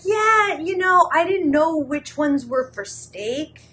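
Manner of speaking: high, loud, over-insistent cover-up; defensive fake excuse. Lying to roommate about knives, high-pitched defensive excuse.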